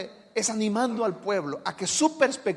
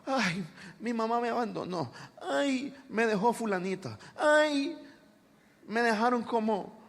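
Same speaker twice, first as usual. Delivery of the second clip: whiny self-pity. Retold or imitated. Preacher mocking self-pitying people, lightly whiny.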